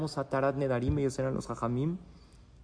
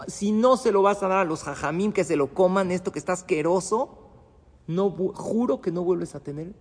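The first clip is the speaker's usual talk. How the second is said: raised, heated voice of a husband swearing an oath; angry husband; 4 semitones higher, 5 dB louder than usual. Retold or imitated. Husband swearing at wife over bad cooking, angry and loud. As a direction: snap it out like a fed-up husband.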